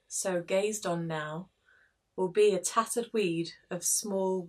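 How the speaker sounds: slow, measured poetry reading; reciting a sonnet. Acted. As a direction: read the sonnet aloud with care. Blind reading of sonnet two.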